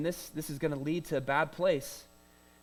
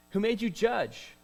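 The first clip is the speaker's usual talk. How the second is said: challenging question; 5 semitones higher than usual. Acted. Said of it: "He challenges him".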